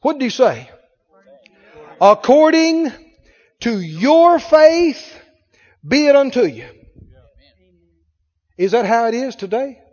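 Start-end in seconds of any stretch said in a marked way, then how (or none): 2.0-6.7 loud, slow proclamation of the words; preacher booming Jesus' words; proclaimed. Acted. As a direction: ring it out like scripture from the pulpit.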